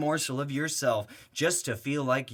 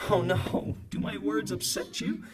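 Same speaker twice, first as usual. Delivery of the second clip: mocking taunt; 3 semitones higher than usual. Taunting the dad.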